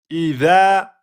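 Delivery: "Idha" chanted with a long final a; two-beat prolongation. Shown as a demonstration. Teacher demonstrating the beats, "Idha" drawn out. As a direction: stretch the end of "Idha". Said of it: "deux temps".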